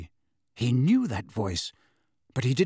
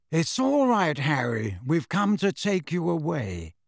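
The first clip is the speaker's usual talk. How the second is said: kind, a little hoarse; gentle reassurance with a rasp; slightly hoarse voice. Acted. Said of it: "slightly hoarse voice".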